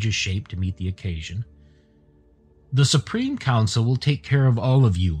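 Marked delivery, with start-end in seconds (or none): 2.7-5.2 higher, mildly menacing threat; snarled. Acted. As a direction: threaten them with a touch of snarl. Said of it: "he snarled".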